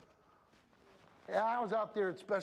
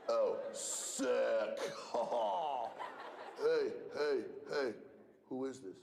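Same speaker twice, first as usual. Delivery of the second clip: low mock stammering with laughs; mock kids reacting; 9 semitones lower, much slower than usual. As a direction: imitate kids caught off guard, laughing. Mocking kids' reaction, laughing voice.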